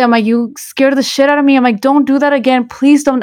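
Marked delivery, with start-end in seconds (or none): 0.2-1.6 higher-pitched mild mock yell; startled reproach, retold without full volume. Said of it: "les grité". 1.8-3.2 high-pitched pleading mock yell; mild reenacted scolding; retold yelling. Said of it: "les grité".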